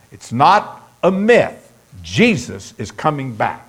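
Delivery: convinced, measured declarations with pauses; emphatic. Real, not acted. Preacher insisting to congregation that Jesus is coming back, emphatic. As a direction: drive each point home, phrase by phrase. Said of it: "You sure sound emphatic about that".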